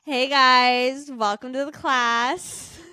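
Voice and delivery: bright, high instructor welcome; fitness instructor voice. Pretend. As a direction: greet the class like a peppy instructor. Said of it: "I wanna hear it".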